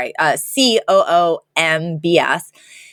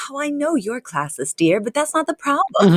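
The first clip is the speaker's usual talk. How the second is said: matter-of-fact; 5 semitones higher than usual. Retold or imitated. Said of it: "very matter-of-factly is like".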